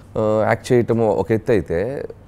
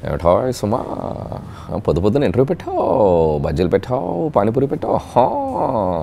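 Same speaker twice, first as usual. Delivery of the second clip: Sobhan Babu impression; slower than usual. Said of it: "శోభన్ బాబు గారిదే".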